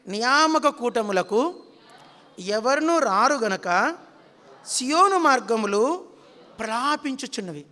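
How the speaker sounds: slow and loud, every word drawn out for the congregation to repeat; slow loud recitation. Shown as a demonstration. Preacher leading the congregation to repeat, slow loud recitation. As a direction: intone it slowly and firmly. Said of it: "అందరూ పలకండి".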